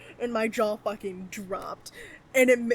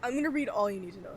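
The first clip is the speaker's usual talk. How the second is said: talking between hiccups; hiccuping; faster than usual. Real, not acted. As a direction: speak with the hiccups catching you. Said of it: "Sorry, I have the hiccups".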